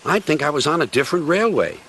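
lightly voiced little engine; Skarloey.

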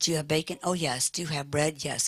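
ordinary talk, nothing marked

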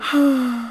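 a disappointed sigh; gentle letdown sigh. Acted. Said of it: "Doctor Elephant sighs".

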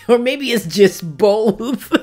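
loud, high, slow through laughter; cracking up on every word; laughing. Real, not acted. Crafter joking about getting older, laughing hard. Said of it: "I'm still laughing".

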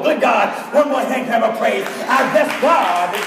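rising, fervent pulpit delivery; preaching. Acted. Preacher stirring the congregation, full preaching voice.

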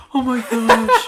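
teasing imitation. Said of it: "you were like, like this".

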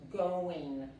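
"going" ending in a plain n sound; teacher's "going", said as goin'; silent final G. Shown as a demonstration. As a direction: model "going" with the G dropped. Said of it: "la G no se pronuncia".

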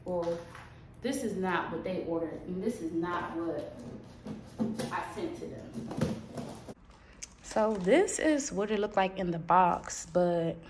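talking around retainers; slight lisp from retainers; wearing a retainer. Real, not acted. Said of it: "I'm talking a little funny, it's because I got my retainers in".

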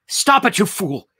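high, loud self-rebuke; shouted at himself. A narrator's reading. Saul fighting the vision, shouting at himself. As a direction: burst out, scolding yourself. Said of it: "Saul shouted at himself".

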